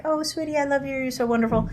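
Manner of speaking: put-on high sing-songy baby talk to an infant; motherese. Shown as a demonstration. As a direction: coo it like a mother to her baby. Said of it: "that sing-songy voice".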